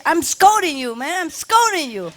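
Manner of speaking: high-pitched exasperated scolding of a pet; mock scolding. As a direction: scold the delighted dog in a high voice. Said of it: "I say".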